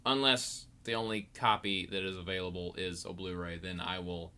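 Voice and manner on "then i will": normal talking voice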